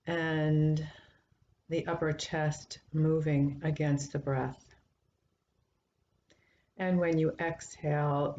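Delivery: calm, measured guidance with long pauses between phrases; guided meditation. Acted. Teacher guiding listeners into a breath meditation, calm and unhurried. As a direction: lead the sitters gently, leaving space to breathe.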